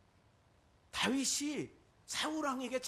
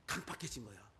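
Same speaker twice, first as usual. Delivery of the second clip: ordinary talk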